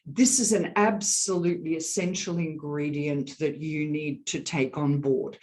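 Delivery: one unbroken flow from "This" to "board"; connected, steady statement without breaks; continuous airflow. Shown as a demonstration. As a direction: keep the air flowing evenly through "essential ingredient" to "board". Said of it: "I must have the air continuing to flow".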